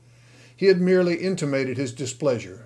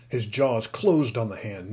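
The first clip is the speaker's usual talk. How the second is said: usual speaking voice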